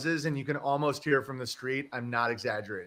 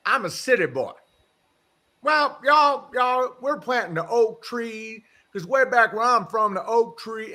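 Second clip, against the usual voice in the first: ridiculously Southern; 8 semitones higher, 6 dB louder than usual. Retold or imitated. Host imitating the Japanese neighbor in his eighties, broad Southern accent. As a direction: ham up an old man's Southern accent. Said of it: "ridiculously Southern".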